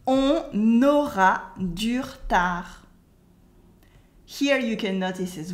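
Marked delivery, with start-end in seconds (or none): 0.1-2.7 slow model "On aura du retard", ending "dur-tar"; dropped French E. Shown as a demonstration. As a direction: drag out "On aura du retard" without the schwa.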